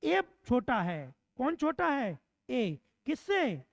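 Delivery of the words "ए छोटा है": slow model reading. Shown as a demonstration. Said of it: "ऐसे ही".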